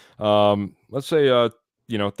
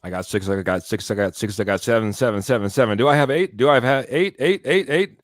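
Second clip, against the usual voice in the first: rapid auctioneer chant, rising on eight. Acted. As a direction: call out bids like an auctioneer. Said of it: "that's my best, uh, impersonation of a auctioneer".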